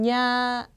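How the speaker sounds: 냐 drawn out on its own; pronunciation demo. Shown as a demonstration. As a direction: model 냐 slowly as the first part of a word. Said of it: "앞에 글자만 읽어보면".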